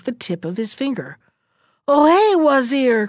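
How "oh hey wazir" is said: sudden loud cry. A narrator's reading. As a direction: cry out in shock and pain. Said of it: "cried the king".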